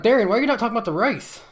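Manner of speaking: high, loud, fast mock complaint; exasperated fan. Viewers scolding Darian for off-topic tweets, exasperated.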